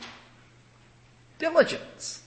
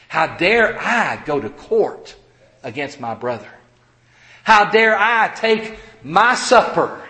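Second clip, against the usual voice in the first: slow, emphatic self-reproach, growing louder; indignation at oneself; 2 semitones higher, 5 dB louder than usual. Acted. Repentant Corinthian rebuking his own sins, forceful indignation. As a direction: hammer each charge against yourself, building in force. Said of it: "Indignation is".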